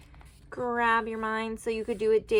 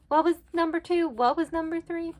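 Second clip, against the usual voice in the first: higher, louder, fast muddled asking; confused forgetful self; 10 semitones higher, 6 dB louder than usual. Retold or imitated. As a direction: act lost, scrambling for the positions. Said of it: "have to be like".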